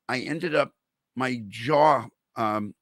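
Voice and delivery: talking through a swollen jaw; words thick, like a softball in the mouth. Real, not acted. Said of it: "if you hear that I'm talking weird".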